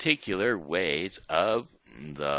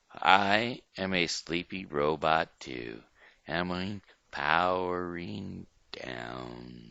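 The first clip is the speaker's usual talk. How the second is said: robot powering down. Shown as a demonstration. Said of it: "We will show you first".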